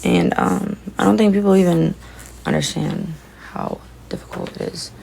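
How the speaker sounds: breathy, tearful, barely voiced; words squeezed out through tears; crying. Real, not acted. Crying about holding it together.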